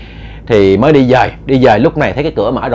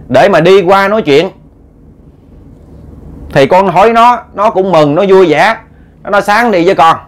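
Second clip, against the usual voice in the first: lightly voiced nephew pleading his case, higher; aggrieved nephew, indignant; 5 semitones higher than usual. Nephew complains to his uncle about being chased away, aggrieved. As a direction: pour out a grievance, pitched up.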